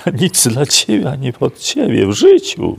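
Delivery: mock-shouted denial, "w życiu" cried out high and loud; imitating a friend's fierce insistence, voice leaping up on "w życiu"; retold emphatic denial, "w życiu" shot up high and loud.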